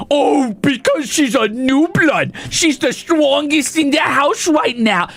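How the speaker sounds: slow sarcastic recital of the excuse; mocking. Mocking the book's excuse for Bella, slow and sarcastic. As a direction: mimic the lame explanation. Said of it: "mocking the book's excuse".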